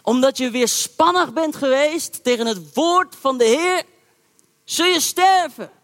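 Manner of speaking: put-on old prophet shouting in the young prophet's face; retold shouting. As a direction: bellow the verdict, pitch climbing on the last words. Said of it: "Hij begon in zijn gezicht te schreeuwen".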